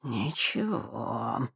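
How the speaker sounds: low, slow, soft mutter. Acted. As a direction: mutter it to yourself. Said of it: "пробормотал он".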